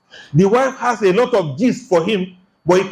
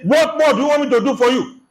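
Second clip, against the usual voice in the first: high, indignant rant at the wife; husband berating his wife, high and indignant; angry husband rant; 6 semitones higher than usual. Retold or imitated. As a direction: voice the ungrateful-wife rant, pitched up hard. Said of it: "But for him to say".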